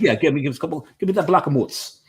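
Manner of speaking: pushy neighbourhood customer; Jersey deli regular. Acted. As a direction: demand "mutz" like a local, ending chopped off. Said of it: "they're gonna ask for the mutz".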